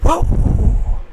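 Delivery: high, loud whoa at the sky; shout. Acted. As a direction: howl it at the moon. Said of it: "shouted at the moon".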